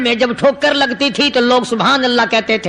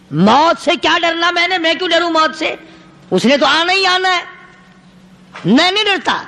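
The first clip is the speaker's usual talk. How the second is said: mildly defiant retort; 6 semitones higher than usual. Acted. Acted dying companion's defiant answer.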